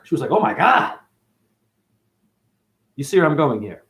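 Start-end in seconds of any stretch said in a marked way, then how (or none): 0.3-1.0 mock astonishment, pitched up; shocked reaction. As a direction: imitate her shocked gasp of words, higher. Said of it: "And it shocked her".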